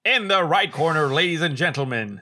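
loud, high ring announcer call; boxing announcer. Acted. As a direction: announce like a fight MC.

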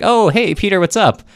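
very high, chummy mid-battle hello; casual greeting. Retold or imitated. Cossack leader greeting Peter in battle, high and chummy. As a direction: chirp it like meeting a buddy. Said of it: "And the guy's like".

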